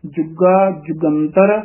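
ਜੁਗਾ ਜੁਗੰਤਰ with a firm, pressed g; slowly tighten the g in ਜੁਗਾ ਜੁਗੰਤਰ; slightly tightened. Shown as a demonstration. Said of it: "ਥੋੜਾ ਜਿਹਾ ਕਸ ਕੇ".

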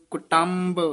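ਕੁਟੰਬ as a separate word, clear K onset; careful ਕੁਟੰਬ. Shown as a demonstration. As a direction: sound out ਕੁਟੰਬ with a full nasal M before B. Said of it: "ਕੁਟੰਬ ਉਚਾਰਨ ਕਰਨਾ ਹੈ".

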